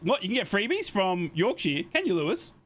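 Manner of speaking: can't believe there are freebies; surprised. Real, not acted. Hears about free Yorkshire tea.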